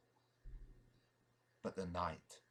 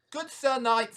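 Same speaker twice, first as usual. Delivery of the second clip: higher, louder goblin greeting; 10 semitones higher, 9 dB louder than usual. Acted. Goblin tempting the knight, high sly voice. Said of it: "said the goblin".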